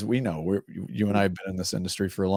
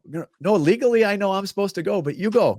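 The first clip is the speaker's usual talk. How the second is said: higher, louder, rising to a frantic pitch; overpolite Minnesota driver; 11 semitones higher, 4 dB louder than usual. Retold or imitated. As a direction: insist the other car goes first, more and more frantic. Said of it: "a Minnesota four-way stop".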